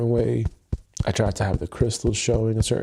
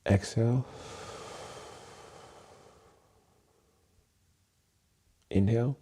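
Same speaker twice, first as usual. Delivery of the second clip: breathing cues; 5 dB quieter than usual. Shown as a demonstration. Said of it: "We're gonna take a deep breath".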